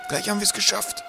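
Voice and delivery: high, airy encouragement; encouraging. A narrator's reading. Professor keeping Twig going, encouraging. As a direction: urge him gently over the last stretch. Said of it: "sagte der Professor aufmunternd".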